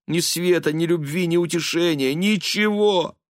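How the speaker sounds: высокий взволнованный голос; причитай в смятении; отчаянные причитания. A narrator's reading. (мать в смятении перед сыном, высоко и взволнованно)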